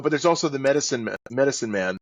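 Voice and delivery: ordinary talk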